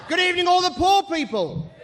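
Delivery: loud, high call across the room; shouted greeting. Real, not acted. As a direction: holler a greeting to the back rows. Calls out to part of audience.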